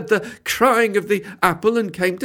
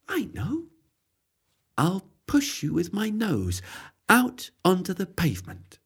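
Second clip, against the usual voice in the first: quiet, reassuring cat; soft kind cat; 6 dB quieter than usual. Acted. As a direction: gently offer the plan. Cat offers help softly.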